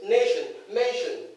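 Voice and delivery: nation, mention with crisp first-syllable stress; correct "shun" teacher. Retold or imitated. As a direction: hit the start of nation and mention, reduce tion to shun. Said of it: "the teacher comes and says".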